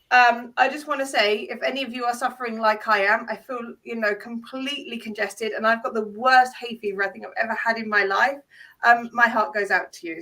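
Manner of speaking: stuffy, bunged-up voice; blocked nose. Real, not acted. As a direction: talk through a blocked nose. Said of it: "sound like I'm bunged up".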